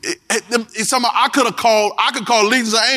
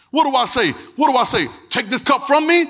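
anguished cry; 6 semitones higher than usual. Acted. Jesus voiced in preached story.

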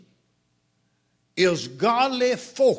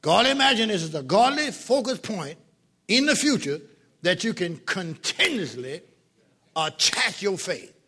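dictating. Acted. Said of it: "Somebody read that back to me".

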